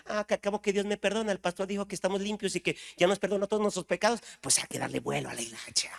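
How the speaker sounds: fast, flippant imitation; mocking careless believer. Preacher mocks believers who think anything goes, quick and flippant. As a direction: toss it off like a careless sinner. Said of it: "Pero si eres los que dicen".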